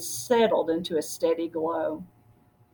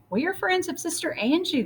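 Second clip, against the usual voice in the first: stranger's voice; 9 semitones higher, 4 dB quieter than usual. Acted. Stranger greets, higher voice.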